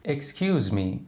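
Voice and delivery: politely calling someone over; a courteous attention-getting "Excuse me". Shown as a demonstration. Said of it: "یه روش مؤدبانه است برای اینکه یه نفر رو صدا کنی".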